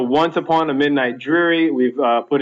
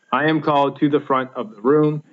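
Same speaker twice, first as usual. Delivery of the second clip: two light beats then a stress: "CALLED", "FRONT", "ROOM"; anapestic rhythm. Shown as a demonstration. Teacher reciting an example line, anapestic stress on "called", "front", "room". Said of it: "sounding anapestic, unstressed, unstressed, stressed".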